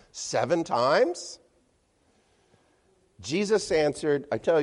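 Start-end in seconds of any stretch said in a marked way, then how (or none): 0.1-1.4 proud offer. Retold or imitated. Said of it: "thinks he's going above and beyond by saying".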